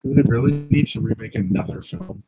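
garbled, patchy audio; muffled mic. Real, not acted. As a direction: voice swallowed by the mic. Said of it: "are you eating your mic".

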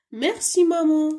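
teacher voicing the child's thanks high. Shown as a demonstration. Child thanks mother in dialogue.

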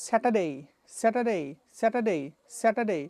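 Saturday said slowly with a long ei at the end; slow Saturday ending in Bangla এই; slow drill. Shown as a demonstration. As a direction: pace Saturday out slowly, stretching the ei. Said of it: "লাস্টে একটা টান হবে".

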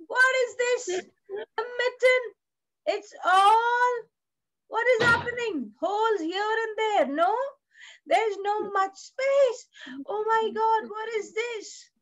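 dismayed surprise. Acted. Voiced alarm at the stretched mitten.

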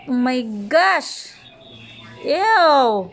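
disgusted surprise. Real, not acted. Watching dog eat cricket.

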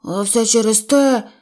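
understated cross bear; mild grumble. Acted. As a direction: blame the door, grumbling. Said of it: "сердито сказав Пух".

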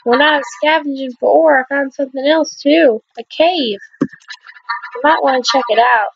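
put-on girl character voice.

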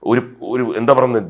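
usual speaking voice

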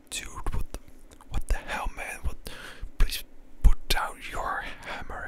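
whisper-shouting in disbelief; retold outburst. Telling the hammer man off, a whispered mock shout. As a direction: push the whisper hard, as if yelling at him. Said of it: "And I was like".

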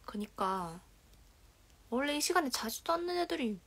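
ordinary talk

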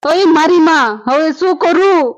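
loud, drawn-out lament; slow, stretched cry of dismay; loud wailing outcry. Acted. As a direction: wail it out over the loss. Wails that stolen goods are gone.

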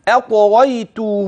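أطغيته held open at the end, not stopped; joined recitation. Shown as a demonstration. Teacher showing how to link أطغيته onward, final vowel lengthened. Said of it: "على الوصل".

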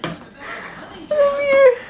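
high-pitched call to a little one. Real, not acted. Parent calling child over.

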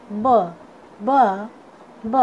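ब as a lone "buh", each one separate; phonic letter sound. Shown as a demonstration. Teacher showing students the sound of B, phonic letter sound. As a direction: sound out ब as B starts "bat". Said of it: "बी का sound होता है".

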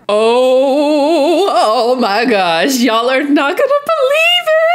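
high, laughing squeal of disbelief; excited squeal. Real, not acted. Fan spotting a rapper, squealing in laughing disbelief. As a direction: squeal it out, half crying with laughter.

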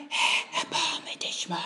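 a breathless whispered plea for mercy. Acted. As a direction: whisper it, barely voiced, begging. (geflüstertes Flehen)

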